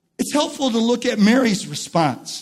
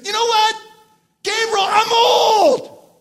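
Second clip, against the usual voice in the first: emphatic protest; 11 semitones higher than usual. Acted. Zechariah objecting to Gabriel that he's old, emphatic. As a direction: imitate an indignant, emphatic old man. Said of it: "it gives the Greek emphatic".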